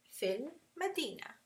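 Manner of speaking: "fil Madina" with a short i in "fil"; dropped long vowel. Shown as a demonstration. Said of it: "to drop that sound".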